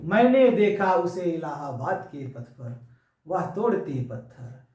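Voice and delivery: slow, measured verse reading; declaimed Hindi verse; poem recitation. Acted. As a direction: recite the poem with firm, deliberate beats.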